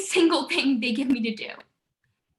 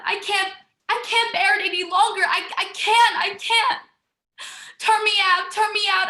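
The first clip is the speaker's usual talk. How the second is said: building into a louder, higher desperate cry; rising distress; 4 semitones higher, 4 dB louder than usual. Acted. Sister crying out to her sisters in despair, desperate and rising. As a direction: plead more and more urgently to be let go.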